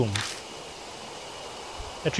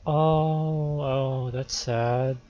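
softer, dwindling sympathetic murmur; subdued sympathy; 3 semitones lower, 5 dB quieter, much slower than usual. Pretend. Player hears the man's sad story, subdued sympathy. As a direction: let the pity trail lower and quieter.

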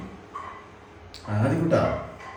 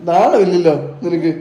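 higher pitched laughing tease; playful teasing; 8 semitones higher than usual. Real, not acted. Mother teasing toddler on the couch, laughing mock scold. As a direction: giggle while scolding him in fun.

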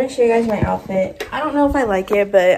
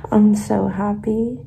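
happy; 6 dB louder than usual. Real, not acted. Thrilled about braces coming off.

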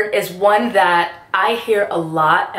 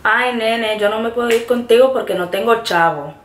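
Puerto Rican accent; 3 semitones higher, faster than usual. Shown as a demonstration. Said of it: "Chavo is used to describe money".

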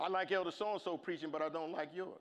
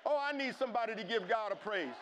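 calling out; 2 semitones higher than usual. Real, not acted. Calls congregation to praise.

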